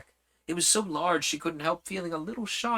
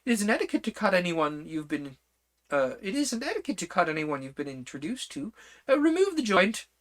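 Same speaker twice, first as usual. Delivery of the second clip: decided; 5 semitones higher than usual. Acted. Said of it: "very decidedly".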